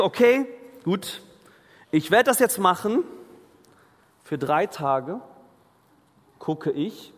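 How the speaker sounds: zögerlich, höher und langsam gesprochen; halbherziger Entschluss. Retold or imitated. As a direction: ein widerwilliges „Okay, gut“ nachahmen. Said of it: "Und vielleicht denkst du". (leicht gespielter, zögernder Vorsatz)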